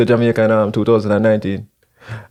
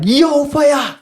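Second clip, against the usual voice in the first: high, bright Rasta greeting; Rasta man voice; 13 semitones higher, slower than usual. Retold or imitated. Rasta man hailing him in the garden, high greeting. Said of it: "And he was like".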